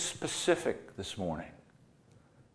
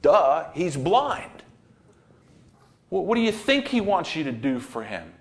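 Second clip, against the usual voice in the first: a sarcastic duh, louder; mocking duh; 4 semitones higher, 4 dB louder than usual. Preacher mocks his first reading, sarcastic and loud. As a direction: scoff at the obvious. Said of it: "I was like".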